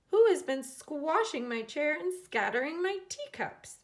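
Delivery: cross mother, high and loud; indignant. A narrator's reading. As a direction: demand to know who did it. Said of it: "she asked".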